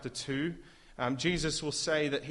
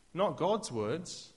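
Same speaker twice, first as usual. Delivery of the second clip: slow emphasis; 4 semitones higher, much slower than usual. Real, not acted. Emphasizing contrast.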